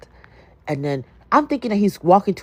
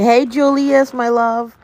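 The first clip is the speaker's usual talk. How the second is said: sing-song greeting; 7 semitones higher, 4 dB louder, slower than usual. Real, not acted. Greeting a viewer warmly.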